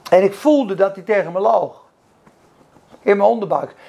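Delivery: loud, driving preacher's delivery; preaching at full force. Acted. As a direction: preach it hard to the room.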